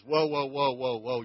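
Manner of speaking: calm them down like reining in a horse; Jesus cutting in. Retold or imitated. Jesus stopping the mother's request.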